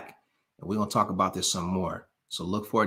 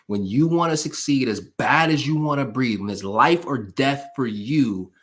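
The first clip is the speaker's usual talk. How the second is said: loud preaching push; 4 semitones higher, 4 dB louder than usual. Acted. Repeating Eric Thomas's line.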